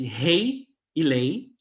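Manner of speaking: "rei e lei" said slowly, each word drawn out like Portuguese rei, lei; old French pronunciation. Shown as a demonstration. Lecturer showing students how French once sounded, slow Portuguese-style "rei e lei". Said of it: "eu tô fazendo uma pronúncia".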